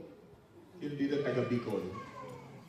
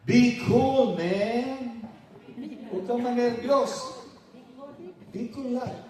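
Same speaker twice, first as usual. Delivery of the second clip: casual "be cool, man", higher and louder; a hint of a laid-back American dude; lightly voiced American; 7 semitones higher, 3 dB louder, slower than usual. American telling him to calm.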